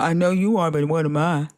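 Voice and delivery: mock childish comeback. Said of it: "in the comments talking about".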